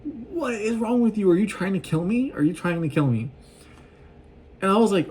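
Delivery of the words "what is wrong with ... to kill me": mock panicked father, much higher, slowing down; over-the-top panicked dad; freaking-out dad. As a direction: ham up the dad losing it over dinner. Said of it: "And her dad is like".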